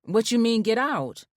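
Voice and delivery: puzzled, rising in disbelief; confused. A narrator's reading. Confused wife asking her husband what he means. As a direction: ask it baffled, not getting it.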